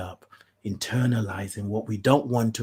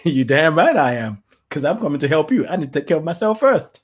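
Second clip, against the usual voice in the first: defiant retort; 5 semitones higher, 7 dB louder than usual. Pretend. Retort to being called selfish.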